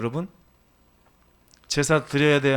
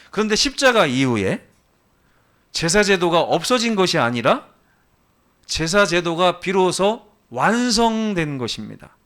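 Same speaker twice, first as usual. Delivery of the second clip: emphatic preaching; 5 semitones higher, 5 dB louder than usual. Real, not acted. Preaches main point emphatically.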